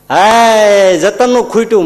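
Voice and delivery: a hammed-up wail that the milk ran out; mock outcry about the milk; mock cry of dismay. Mock woman calling out.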